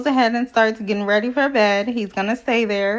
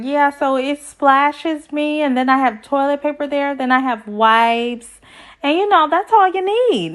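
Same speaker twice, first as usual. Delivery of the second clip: a mild mock of her proud explaining; imitating Bao; 4 semitones higher than usual. Vlogger mocking Bao's bidet tour, lightly voiced higher. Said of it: "she's like".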